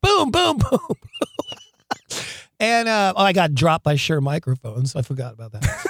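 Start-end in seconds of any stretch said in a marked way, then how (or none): 0.0-1.0 high-pitched "boom" hits; playful spoken sound effect; imitated booms. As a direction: punch out a row of high booms.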